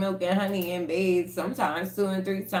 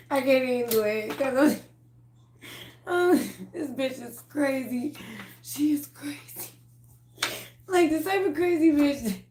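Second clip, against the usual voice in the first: high, breathless laugh sinking to a whisper; 9 semitones higher than usual. Real, not acted. Cracking up describing the woman.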